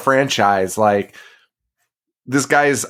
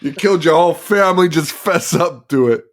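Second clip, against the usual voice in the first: quick, higher mocking cop voice; mock cop accusation; 5 semitones higher than usual. Cop to Kirsty, mock accusing, fast and higher. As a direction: badger her to confess.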